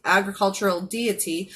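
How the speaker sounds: carefully re-said with a numb tongue. Real, not acted. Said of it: "my tongue is still so numb".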